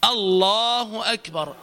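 الله أكبر with clean hamza, slow; slow careful الله أكبر; correct takbir. Shown as a demonstration. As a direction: say الله أكبر slowly, no stretched آ. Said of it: "تقال آ".

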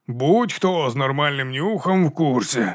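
slow drawl. Acted. The baron drawls a jab at Vigga, slowly. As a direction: drawl it out lazily. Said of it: "затягнув барон".

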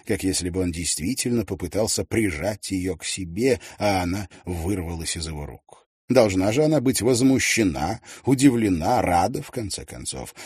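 ordinary delivery

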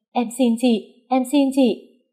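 high, terrified pleading cry; frightened scream. Acted. Mistress begging the wife in terror, high frightened cry. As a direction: beg in panic, voice high. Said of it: "Cô ta sợ quá mà hét lên".

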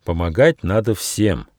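mildly stern, measured reply. Acted. Gnome corrects the protesting squirrel, mildly stern. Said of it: "строго сказал Нюфа".

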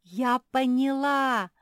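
slow, loud, high cry; excited realization. A narrator's reading. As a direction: announce it with eager glee. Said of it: "забила хвостом".

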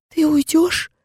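Анита clinging to Zara, asking in fear; frightened child. Acted. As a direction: plead like a scared child. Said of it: "вцепилась в меня Анита".

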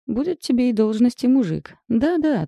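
eager. Acted. Friend eagerly promising.

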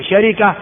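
شركة as sharika; full variant. Shown as a demonstration. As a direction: say شركة with a, then i. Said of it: "هذه كلها لغة صحيحة". (شركة بفتح الشين وكسر الراء)

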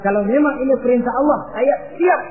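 high, loud, quick declaration; resolute readiness. Acted. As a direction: pledge it without hesitation. Ismail declares himself ready. (menjawab mantap, lantang)

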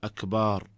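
أكبار with a long aa after the b, said as أكبار instead of أكبر; lengthened ba. Shown as a demonstration. Sheikh showing the wrong long ba in أكبر. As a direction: draw out the vowel after the b in أكبار. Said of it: "أن يمد الباء في أكبر فيقول".

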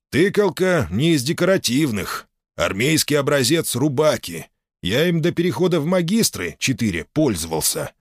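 proud gruff boatswain; old sailor. Acted. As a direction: hand it over with pride. Boatswain presents sword.

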